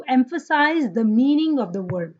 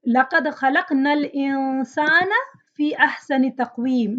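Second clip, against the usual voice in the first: fast, flowing recitation of the verse; Quran recitation; much faster than usual. Shown as a demonstration. Teacher reciting the next example ayah, quick melodic recitation. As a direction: recite the ayah in one smooth breath.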